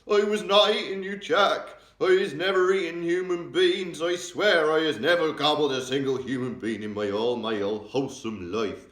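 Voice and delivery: loud, very high, frantic screech; the giant screaming that he never ate humans; screeching denial. A narrator's reading. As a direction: swear your innocence in a panic. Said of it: "he screeched".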